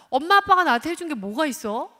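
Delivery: high, loud accusing demand; child's angry protest. Retold or imitated. Teenager protesting loudly to parents, angry. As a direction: fling the question at your parents. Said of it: "라고 말하는 이 자녀가".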